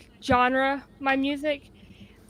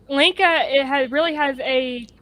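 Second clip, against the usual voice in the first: echoing tunnel. Real, not acted. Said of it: "like you're talking through a tunnel".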